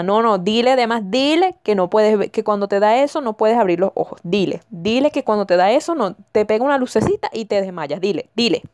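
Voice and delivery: lightly voiced pushy mom; a touch of a nagging, overdramatic mother; insistent mother prompting. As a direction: keep prodding with urgent little orders. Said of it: "Y la mamá".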